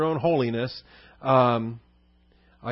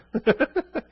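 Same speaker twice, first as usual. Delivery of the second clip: high laugh; 10 semitones higher than usual. Retold or imitated. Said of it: "humanity in us comes out and says".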